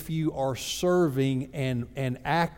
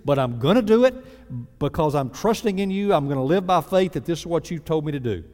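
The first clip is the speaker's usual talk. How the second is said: little fit; 3 semitones higher, 4 dB louder than usual. Retold or imitated. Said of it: "have a little fit with God".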